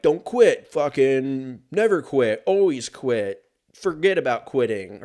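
mock Rock-style hype, loud and punchy; motivational pep talk. Mocking The Rock's Instagram pep talk, loud hype. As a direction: pump up the listener like a fitness star. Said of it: "The Rock or fucking whoever".

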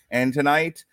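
ordinary talk, nothing marked

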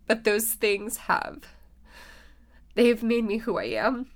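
teary, choked-up voice; ugly crying. Real, not acted. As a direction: speak through real tears. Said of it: "this is why you don't ugly cry in a podcast".

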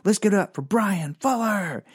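hammed-up emcee announcing his own name; self-intro as emcee. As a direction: introduce yourself like a club host. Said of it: "I said".

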